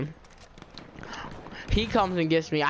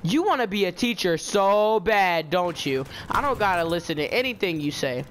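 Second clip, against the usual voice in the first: retold yelling back; 3 semitones higher than usual. Student talking back to the helper, mildly re-enacted yelling. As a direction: throw it back defiantly, a mild yell. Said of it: "I started yelling back".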